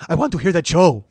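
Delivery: high, loud impression of an excited waxer; Renee. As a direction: exclaim it in a put-on high voice. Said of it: "did an impression of you".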